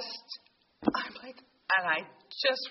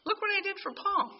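higher, gently teasing voice of God, second line quick; voice of the Lord; 7 semitones higher, faster than usual. Retold or imitated. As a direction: let God playfully point to Paul. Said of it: "the Lord just said to me".

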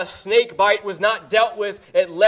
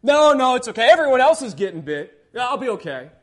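foolish Israelite. Retold or imitated. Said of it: "some foolish Israelite who was bitten".

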